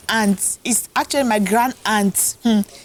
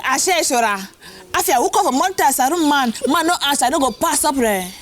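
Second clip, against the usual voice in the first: high-pitched Batibo landlady; Batibo woman accent; 7 semitones higher than usual. Retold or imitated. Aged landlady answers schoolgirl's greeting, high Batibo accent. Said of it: "The mommy said".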